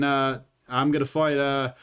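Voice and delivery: a lightly put-on, shaky Australian accent; mock a cocky Australian fighter; playful fake Australian brag. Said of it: "that was a shitty Australian accent".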